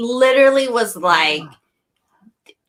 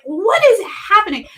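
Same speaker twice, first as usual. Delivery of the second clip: high, incredulous question; baffled; 11 semitones higher, faster than usual. Retold or imitated. Jeremy watching everyone scramble, asking in high baffled disbelief. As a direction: play it stunned and lost.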